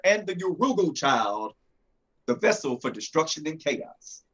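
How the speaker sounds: measured epic prologue narration; story narration. Acted. Creator introduces his comic's legend to listeners, story narration. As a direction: narrate an ancient prophecy with emphatic phrasing.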